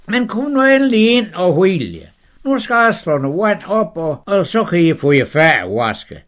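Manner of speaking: high, loud, eager host; eager welcome. Acted. Abraham welcoming the Lord, high and eager. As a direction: gush over the guests.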